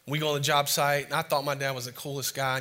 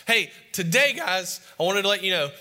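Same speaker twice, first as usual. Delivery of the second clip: raised voice, addressing a whole work crew; announcing to the crew; 5 semitones higher, 6 dB louder than usual. Retold or imitated. Dad announcing to his construction crew, raised voice. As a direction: call it out across the job site.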